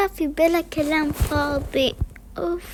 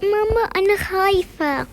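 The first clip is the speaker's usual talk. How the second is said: pretend scared; 4 semitones higher, 3 dB louder than usual. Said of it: "بروح أقول حق ماما".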